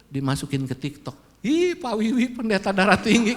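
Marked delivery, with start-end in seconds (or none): 1.4-3.3 imagined gossip with a laugh; mock the viewers, laughing; laughing mock comment.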